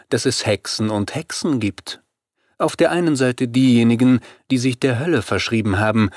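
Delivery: a hint of a self-assured vampire woman, pitch lifting at times; lightly voiced vampire leader. Vampire explains to her opponent which witches' blood tastes good, lightly voiced. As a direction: lightly play the confident vampire boss.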